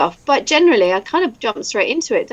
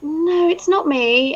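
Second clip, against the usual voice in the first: higher, drawn-out mock denial; acted denial; 6 semitones higher, much slower than usual. Insisting she is not the voice in the playback, drawn-out denial. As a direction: insist slowly and higher, as if retelling disbelief. Retelling her disbelieving denial to colleagues.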